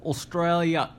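playful mock Australian accent. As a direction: say it with a put-on Australian twang.

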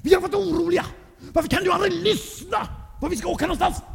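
gäll, uppjagad mamma i falsett; skäll med mycket hög röst; arg som ett bi. A narrator's reading. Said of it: "Hon var som ett bi". (arg, gäll mammaröst)

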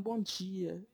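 "bom dia" with a hard "di"; lightly mimicked Northeastern greeting; imitated Northeastern accent. Local man greeting a visitor, imitated Northeastern accent. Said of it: "primeira vez que eu escutei o cara".

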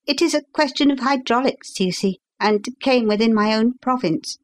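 lightly voiced agitated young gentleman; lightly voiced young visitor. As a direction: hurry through it like an anxious young engineer.

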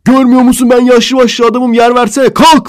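high, loud furious yell; imitated yelling. Imitating the old man yelling at a girl, loud. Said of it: "bağıra bağıra".

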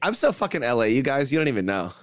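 lightly put-on Valley girl; Valley girl accent. Playing along with teasing about his speech, Valley girl accent. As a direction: play up a Los Angeles accent a little. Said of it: "sounds like he's a Valley girl".

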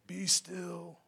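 low, measured movie-hero order; theatrical command. Acted. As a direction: settle the storm with grave authority. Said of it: "we do things so theatrical".

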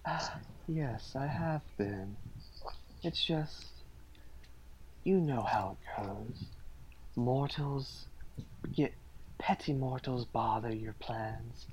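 soft, condescending villain; smug villain voice. Acted. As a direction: dismiss the petty mortals. GM voices Yurtris, dismissive.

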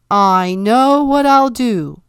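loud, slow, triumphant declaration; king plotting in his waterbed; sudden scheme. A narrator's reading. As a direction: announce the plan with glee. King's sudden idea at night.

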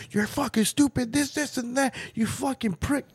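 mock high yell at a kid; imitating an angry yell. A dad retelling his son yelling at Lenny, mock angry. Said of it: "He's like".

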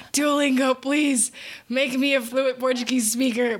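lightly hammed-up begging; mock plea. Daughter begs Duolingo for fluency, mock plea. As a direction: plead in jest with a language app. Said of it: "It's like".

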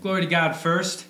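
high, loud mock player voice; Patrick Mahomes impression. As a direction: ham up a post-game thank-you. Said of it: "I think he'll say".

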